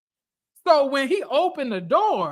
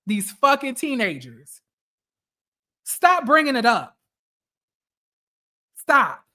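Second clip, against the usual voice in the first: fed-up, exasperated scolding; annoyed telling-off, at the end of patience; irritated rant. Real, not acted. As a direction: vent real irritation, punching the odd word. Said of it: "I'm getting so irritated".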